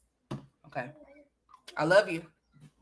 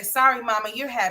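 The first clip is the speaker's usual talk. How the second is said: higher-pitched child mimicry; imitating young son; 6 semitones higher than usual. Mom retells her son's apology, higher mimicking voice. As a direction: lightly put on your little boy's voice. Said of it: "He gonna say".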